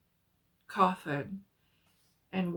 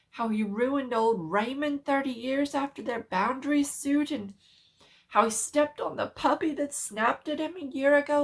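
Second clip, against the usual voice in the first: horrified outburst; 3 semitones higher, 4 dB louder than usual. Acted. Doctor confronts Birch about the coffin, growing frantic and loud.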